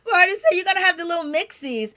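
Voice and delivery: high, loud, laughing "oh my God"; laughing disbelief. Retold or imitated. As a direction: laugh through your shocked reaction. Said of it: "And I was like".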